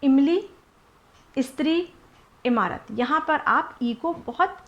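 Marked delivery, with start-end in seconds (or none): 0.0-2.9 short इ said quick in इमली, स्त्री, इमारत; teacher modelling a short इ; short ee demo. Shown as a demonstration. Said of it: "ध्यान से आप बोलेंगे".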